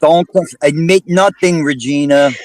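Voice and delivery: laughing tease. Real, not acted. Teasing a guest about confessing.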